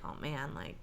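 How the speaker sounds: low, soft, understated aside; quiet, low-key acted worry; mildly stressed. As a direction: say it small and subdued, acting mild stress. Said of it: "instead of being like".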